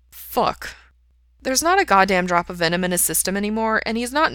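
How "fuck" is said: sighed-out curse. A narrator's reading. Caught-out man to himself, sighing. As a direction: let the curse out on a sigh. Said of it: "Ray sighs and says".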